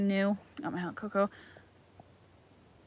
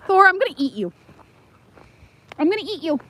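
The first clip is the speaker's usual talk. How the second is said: playful threat; 6 semitones higher, faster than usual. Pretend.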